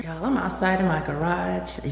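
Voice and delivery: echoey garage room sound; talking in a bare, echoing garage. Real, not acted. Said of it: "As you can hear by the echo".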